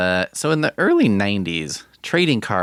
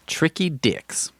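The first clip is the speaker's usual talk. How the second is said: mock voice; 7 semitones higher, slower than usual. Jokey aside about tricky men.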